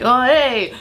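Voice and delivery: playful Sopranos imitation; Sopranos-style accent. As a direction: call out like a Sopranos mobster. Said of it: "went down this Soprano, uh, little kick".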